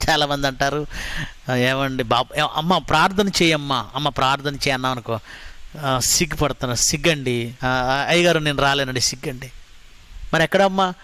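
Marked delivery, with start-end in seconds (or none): 1.5-9.5 a hint of a bashful believer, softer; mock shy excuse. Pastor mimicking a shy member who won't pray. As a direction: mumble the excuses like a shy churchgoer.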